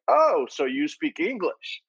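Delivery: mock amazed discovery; surprised reaction. People reacting to a Latino speaking English, mock surprised. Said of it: "The first reaction would be like".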